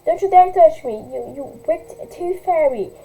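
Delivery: screamed. Acted. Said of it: "screamed at the top of her lungs".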